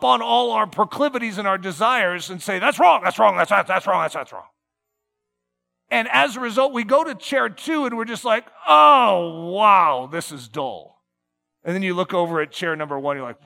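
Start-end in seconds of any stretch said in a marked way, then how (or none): 2.6-4.5 mock scolding. Preacher mimicking God condemning desires, loud mock scolding fading. 8.7-11.0 sarcastic sigh of boredom; mock bored. Believer in chair two, mock bored and deflated.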